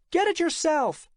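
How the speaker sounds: loud, high, snapped retort; angry reply. A narrator's reading. Assistant refuses her boss from her cubicle, angry shout. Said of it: "came her angry reply".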